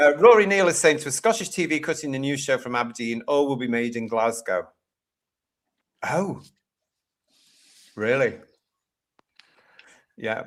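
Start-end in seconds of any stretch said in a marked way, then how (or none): none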